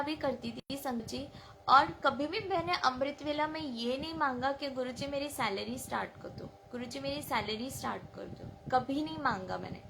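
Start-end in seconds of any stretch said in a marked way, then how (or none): 4.7-8.5 quiet pleading prayer. Retold or imitated. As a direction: pray it softly, almost to yourself. Private prayer at dawn, quoted.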